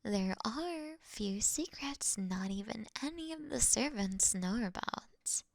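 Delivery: usual speaking voice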